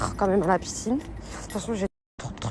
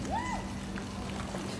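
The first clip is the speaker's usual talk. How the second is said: shivering squeak; 12 dB quieter than usual. Acted. Shivering after swim, freezing.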